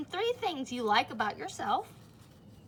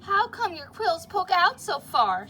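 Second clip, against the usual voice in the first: mock bully question; 8 semitones higher, 9 dB louder than usual. Biff teases again.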